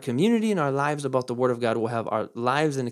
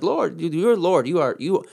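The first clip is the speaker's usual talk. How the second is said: flattering. Retold or imitated. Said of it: "flattering the Lord with their lips".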